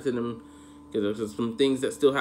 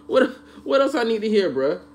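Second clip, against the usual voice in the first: high, loud, half-laughing demand; mock disbelief through laughter; laughing outrage; 10 semitones higher, 6 dB louder than usual. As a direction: yell it while cracking up. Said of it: "I'm like".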